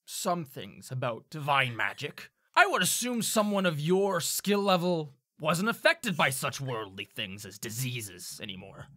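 a hint of a pointedly doubtful recruiter; lightly voiced sceptical tiefling. Tiefling questions a sick graduate about divine magic, lightly sceptical.

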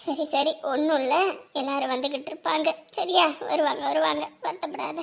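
low, soft comforting murmur; quiet, tender consolation; soothing reassurance. Acted. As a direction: gently settle someone who is upset. Consoling the upset host.

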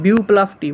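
বিউ and টি sounded as separate units; teacher splitting বিউ from টি; syllable by syllable. Shown as a demonstration. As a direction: break after বিউ, then give টি its own beat. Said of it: "মানে দুটো অক্ষর পাচ্ছে".

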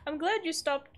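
badly faked Canadian accent with a laugh; attempted Canadian accent. Shown as a demonstration. Streamer trying the villager's line, failed Canadian accent. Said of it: "I can't do a Canadian accent".

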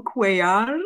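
Cuellar with a trilled Spanish rr; rolled r. Shown as a demonstration. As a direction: roll the r in Cuellar, Spanish style. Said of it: "Yes, I'm rolling my R's".

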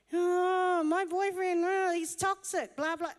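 whiny friend. Retold or imitated. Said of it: "They're like".

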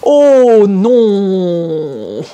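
dismayed French no. Shown as a demonstration.

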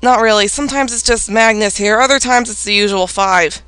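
low, matter-of-fact Norway lines; serious. Acted. Norway answering a guest about who visits, seriously. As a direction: play it straight and serious, a little low. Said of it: "I'm just gonna be serious here".

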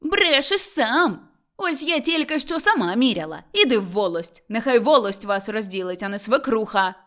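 loud, combative outburst; angry yelling. Acted. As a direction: yell back and send them to the authorities. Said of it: "репетувала Мотря". (сварливе репетування)

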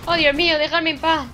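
high, loud alarm; loud, high-pitched protest; panicked yelling. Real, not acted. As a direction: cry out while being chased. Panicking while chased by enemy.

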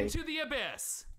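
reversed recording, garbled; played backwards. Shown as a demonstration. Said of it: "I'm going to reverse that".

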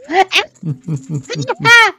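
screechy cackling laugh; croaky laugh. Retold or imitated. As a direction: cackle like an old witch. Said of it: "krächzendes Lachen".

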